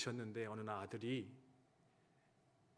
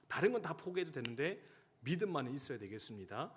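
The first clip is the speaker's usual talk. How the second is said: raised, urgent complaining prayer; pleading cry to God; 2 semitones higher than usual. Retold or imitated. Mother-in-law crying out to God about her son, pleading. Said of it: "원망하며 기도하기, 부르짖으며 기도했다".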